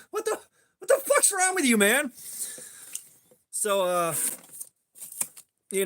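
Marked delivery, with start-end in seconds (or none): 0.1-2.1 high, laughing through the words; laughing disbelief. Retold or imitated. Friend laughing in disbelief at Corey. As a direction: crack up while asking.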